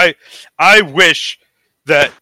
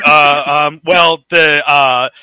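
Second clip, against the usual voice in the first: mock floundering; 2 semitones lower, 3 dB louder, slower than usual. Podcaster mimicking someone stuck on a question, mock floundering. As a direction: imitate stalling for an answer. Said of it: "trying to come up with the answer".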